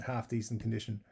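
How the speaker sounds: "half" given the emphasis in "half decent"; stress on half. Real, not acted. Host owning up to his modest fitness, stress on "half". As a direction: lean on the word "half". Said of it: "Emphasis on the half".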